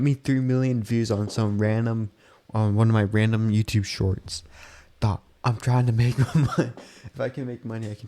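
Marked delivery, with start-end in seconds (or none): 5.0-7.9 laughing through the words; chuckling while talking. Real, not acted.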